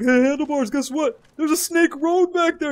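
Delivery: high, loud mock-eager announcement; imitating excited teammate. Teammate reporting a road back there, imitated excitement. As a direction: shout big news, drawing out the end. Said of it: "Heaven Shot Bag's like".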